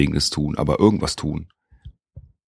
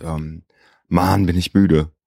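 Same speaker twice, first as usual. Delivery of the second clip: tired, slow and drawn out; sleepy, dragging the words; trailing off; slower than usual. Real, not acted. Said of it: "Ich bin unglaublich müde".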